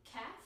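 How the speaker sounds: "kaf" with an ordinary English-style K; plain K. Shown as a demonstration. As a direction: say "kaf" with a light K, not guttural. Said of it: "It's not kaf".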